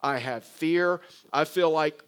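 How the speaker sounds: loud, mildly angry list of grievances; Jonah's complaint. Acted. Jonah venting to God about being sent to the Ninevites, mildly angry. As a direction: pile up the grievances with rising insistence. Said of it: "See, Jonah is thinking".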